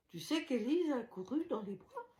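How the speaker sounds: voice cracking. Real, not acted. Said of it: "la voix a dérapé".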